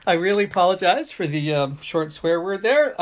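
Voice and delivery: apologizing through a laugh, quick; laughing apology. Real, not acted. Apologizing to viewers for the swear, through laughter. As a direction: laugh it off while saying sorry.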